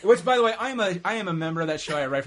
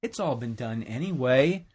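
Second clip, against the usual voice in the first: ordinary delivery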